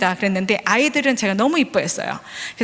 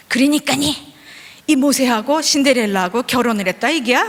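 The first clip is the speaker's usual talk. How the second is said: put-on North Korean accent. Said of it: "문을 탁 열고 들어와서".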